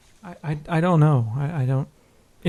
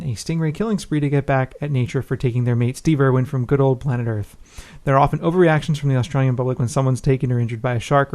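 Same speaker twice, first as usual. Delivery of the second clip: steady, measured read-aloud voice; email read-aloud. Real, not acted. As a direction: read out a listener's letter evenly. Reads a listener's email aloud.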